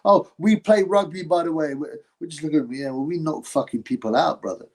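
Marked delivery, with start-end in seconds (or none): 0.0-1.7 lightly voiced eager rugby lad; a hint of overfriendly; a touch of mock friendliness; mock friendly. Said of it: "started being all friendly".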